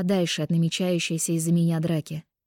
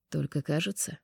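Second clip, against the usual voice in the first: mocking drawl; 2 semitones lower, 7 dB quieter than usual. A narrator's reading. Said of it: "насмешливо протянул он".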